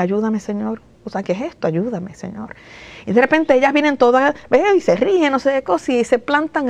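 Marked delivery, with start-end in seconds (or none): 0.0-2.6 murmured prayer. Retold or imitated. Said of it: "estoy en lo mío".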